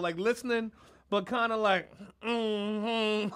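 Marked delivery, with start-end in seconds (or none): 2.2-3.3 Mary mode. Retold or imitated. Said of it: "in full Mary mode".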